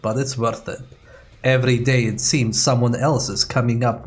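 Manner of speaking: lightly put-on Russian accent; faltering mock Russian accent; weak Russian accent. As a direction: read the notes as a half-hearted Russian scientist with a Russian accent. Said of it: "forgot how to do a Russian accent".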